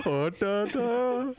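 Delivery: a quick singsong burst mocking the Indian accent. Teasing his cohost's accent attempt, mock singsong Indian accent. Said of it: "You start singing".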